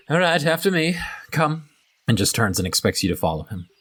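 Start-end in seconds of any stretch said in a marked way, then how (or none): 0.1-1.7 brusque order. Acted. Cultist leader commanding.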